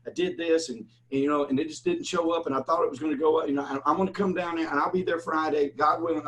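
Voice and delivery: the debtor stalls on the phone, imitated excuse-making. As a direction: wriggle out of paying, lightly imitated. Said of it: "And the guy goes".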